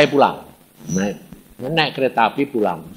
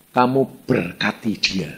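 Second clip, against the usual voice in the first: a slow, measured command; voice of God; 4 semitones lower than usual. Retold or imitated. Preacher voices God telling him to bless someone, slow command. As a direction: pronounce it slowly as God instructing His servant. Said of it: "Tuhan ini ngomong".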